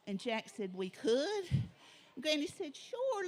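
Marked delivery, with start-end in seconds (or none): 0.7-1.5 surprised Jack. A narrator's reading. 2.7-3.3 high, lilting "Sure"; bright granny. A narrator's reading. Granny telling the boys they can make the suit, high sure reply.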